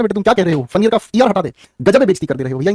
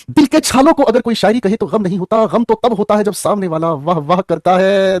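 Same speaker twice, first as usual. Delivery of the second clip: declaimed shayari; slower than usual. Acted. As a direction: deliver the couplet like a mushaira poet, slowly. Recites a shayari couplet.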